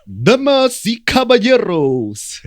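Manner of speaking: high, loud, drawn-out ring announcer call; wrestling announcer voice. Pretend. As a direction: stretch it out like a lucha libre ring announcer. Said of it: "your best wrestling announcing voice".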